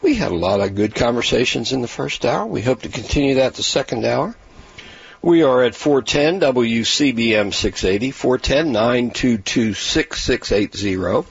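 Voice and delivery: talking through sticky peanut butter; words gummed up by a mouthful; mouth full of peanut butter. Real, not acted. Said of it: "Sorry if I sound a little odd".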